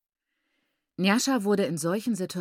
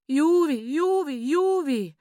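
high, loud rhythmic wail; keen each cry, rising and falling; 8 semitones higher, 6 dB louder, slower than usual. A narrator's reading. Mother watching her daughter beaten, wailing. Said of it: "jammerte Maiguru".

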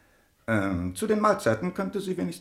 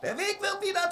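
high angry command; 5 dB quieter than usual. Acted. Prince gives a furious order.

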